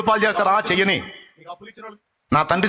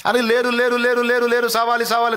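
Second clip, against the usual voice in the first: mocking taunt; 4 semitones higher, slower than usual. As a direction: jeer like the people who mock her. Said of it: "దరిద్ర మాటలు మాట్లాడతావు".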